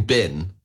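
"Bin" with a short i for Ben; Kiwi vowel. Shown as a demonstration. Bandmate recalling his friend's New Zealand name, "Bin" with short i. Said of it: "'cause we say Ben".

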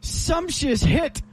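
high, drawn-out mock British call; fake British accent. Shown as a demonstration. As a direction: stretch it out in put-on British. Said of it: "use a fake British accent".

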